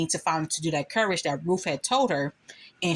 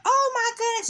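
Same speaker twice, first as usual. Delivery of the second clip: very high, louder gasp of shock; shocked cry; 4 dB louder than usual. Retold or imitated. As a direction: shriek at what you just saw. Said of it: "She screamed out".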